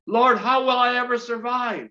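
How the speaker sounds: hammed-up despairing plea; mock desperate cry. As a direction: cry out like a frightened believer. Voicing a worried believer.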